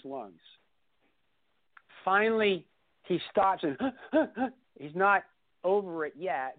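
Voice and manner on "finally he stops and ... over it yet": laughing through the words; laughing while telling how it ended. Real, not acted. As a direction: breaks into a laugh and gasps.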